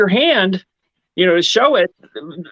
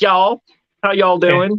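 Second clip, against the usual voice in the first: mock Southern drawl, imitated Southern accent. Imitating people met going to the South: imitating a Southern accent. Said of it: "they do say, like".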